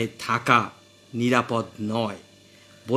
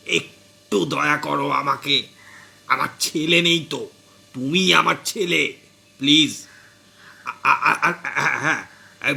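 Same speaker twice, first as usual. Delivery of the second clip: tearful pleading. Acted. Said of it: "কাঁদো কাঁদো হয়ে শ্বশুরমশাই বললেন".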